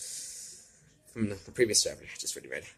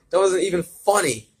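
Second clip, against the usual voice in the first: annoyed villain; 9 semitones higher, 9 dB louder than usual. Acted. Villain retorts to joke.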